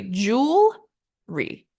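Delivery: jewelry broken apart, JOOL, pause, ree; two-syllable jewelry. Shown as a demonstration. Teacher hammering home the two beats, split jewelry. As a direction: hold JOOL, then drop in ree. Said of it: "literally just two syllables".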